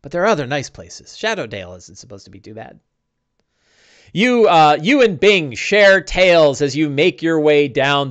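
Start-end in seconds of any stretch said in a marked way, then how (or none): 0.0-2.8 a hint of a humble servant saying sir to his master; servile sidekick. GM voices Bing.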